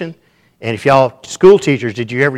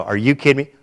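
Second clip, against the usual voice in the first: hammed-up scoffing comeback; mock incredulous Puritans; 3 dB louder, faster than usual. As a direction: retort with raised, scoffing disbelief. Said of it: "They look at us and go".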